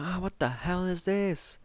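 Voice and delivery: put-on high, slow, shrieking kid voice; little kid screaming. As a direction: imitate a small kid yelping in shock. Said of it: "I just hear him freaking scream".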